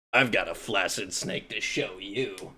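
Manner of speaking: hammed-up lecherous whisper; creepy low voice. Lewd joke voice.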